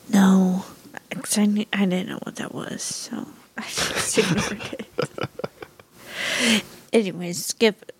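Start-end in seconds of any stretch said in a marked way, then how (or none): 1.7-6.6 hushed embarrassed aside; whispering. Real, not acted. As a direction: drop to a whisper.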